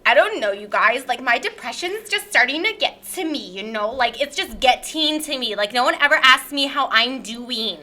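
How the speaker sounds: lightly hammed-up wounded complainer; self-pitying guest character. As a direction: play a put-upon guest fishing for sympathy. Plays podcast guest Lyre Lynn.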